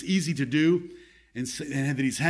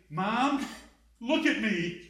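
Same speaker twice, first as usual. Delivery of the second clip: a soft, higher, whiny plea; mock the idea of a pleading, self-pitying Jesus; mocking pitiful plea; 6 semitones higher, 5 dB quieter, slower than usual. Preacher mocks a misreading, whining to his mother. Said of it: "I'm not making mockery of it".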